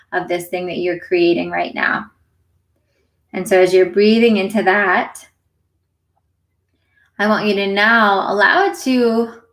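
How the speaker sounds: unhurried meditation guide, long pauses between phrases; guided meditation. Acted. Meditation teacher leading listeners into their breath, guided meditation. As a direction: gently lead listeners through it, leaving space to breathe.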